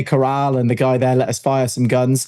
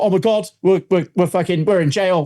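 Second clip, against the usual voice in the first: higher, stammering retold alarm; mock panic; 5 semitones higher than usual. Visiting shooter fears jail when police appear, retold mild panic. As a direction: stumble upward in half-played panic.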